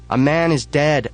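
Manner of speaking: high, loud cry to stop; urgent shout. Acted. Narrator tries to shut down the club, loud shout. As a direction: stop the crowd cold. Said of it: "I say".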